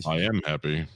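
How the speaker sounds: lightly mock his way of talking; first, understated take at the impression; put-on mocking accent. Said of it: "I don't know what accent".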